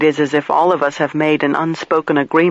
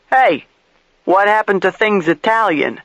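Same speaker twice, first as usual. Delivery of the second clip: Marino's rant; 5 semitones higher than usual. A narrator's reading. Marino ranting, higher.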